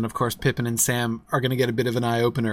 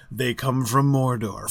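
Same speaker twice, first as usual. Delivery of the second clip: seriously ominous. Retold or imitated. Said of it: "seriously ominous".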